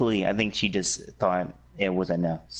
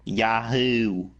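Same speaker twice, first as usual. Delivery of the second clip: Mario impression; 2 semitones higher than usual. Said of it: "I also do the voice of Mario".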